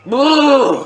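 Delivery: high, loud drawn-out roar; roaring self-encouragement. Real, not acted. Gamer psyching himself up for the match, high drawn-out shout. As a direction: holler it long and high.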